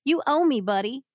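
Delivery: firm, loud threat; angry. Acted. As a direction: lean into the threat. Reading quoted threat in story.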